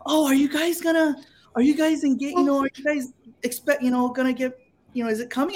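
high-pitched inquisitive saleswoman; lifted, eager customer-service voice; shop lady. Retold or imitated. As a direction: imitate a nosy jewelry-shop lady. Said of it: "and the lady's like".

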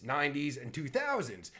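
ordinary talk

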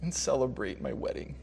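soft, lightly voiced bride; gentle coaxing. Bride inviting her dad back to the wedding, imitated gentle coaxing. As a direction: coax him quietly and tenderly.

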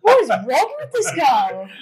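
slow, high, drawn-out wail of disbelief; incredulous, swooping high outburst; exasperated disbelief. Real, not acted. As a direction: stretch it out, aghast and amused. Listener reacts in disbelief.

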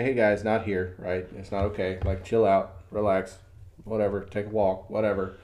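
low, easy de-escalating voice; casually defusing a scuffle; calming peacemaker. Retold or imitated. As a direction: talk two guys down, low and casual. Stepping in to calm fight.

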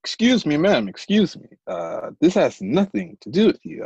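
lightly voiced official handling an upset woman; politely firm agent cutting in; a hint of officious authority; character voice. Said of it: "Fucking character voice and everything".

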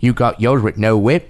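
lightly voiced English film star; Michael Caine voice. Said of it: "your Michael Caine".

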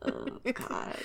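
breathy whisper, very soft; soft whispered aside; whispered oh God. Real, not acted. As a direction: sigh it out under breath. Tired aside.

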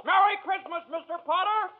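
high, giddy delight; overjoyed. Acted. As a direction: bubble over with joy. Running through town overjoyed.

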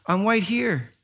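hint of a toddler's w for r; little boy's answer. Son answering dad again, lightly childlike.

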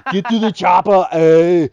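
put-on loud, high Arnold voice in a Canadian accent, adding eh; Schwarzenegger with a Canadian accent. Joking about actor voices, mock Arnold with Canadian accent. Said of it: "Arnold Schwarzenegger's voice with, like, a Canadian accent".

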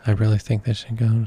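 a sudden breathy whisper aside. Real, not acted. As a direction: drop into a conspiratorial whisper. Joking aside to co-host.

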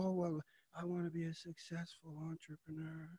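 mock lazy wannabe. Mock half-hearted person.

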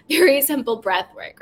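amused chuckle as you restart; giggly self-correction; laughing. Real, not acted. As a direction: laugh through the words after a slip. Laughs after own slip.

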